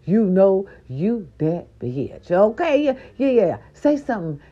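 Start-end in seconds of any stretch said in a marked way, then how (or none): 0.1-2.3 sassy affirmation. Shown as a demonstration. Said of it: "Or say".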